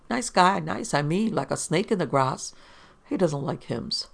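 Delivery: lightly voiced drunk newspaperman, self-righteous; a hint of boozy piety; tipsy reporter. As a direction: boast like a mildly sozzled wag.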